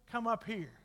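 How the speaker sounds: very soft, offhand delivery; understated, no shout. Shown as a demonstration. Preacher showing how Jesus did not call John, quiet. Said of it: "he didn't say it like that".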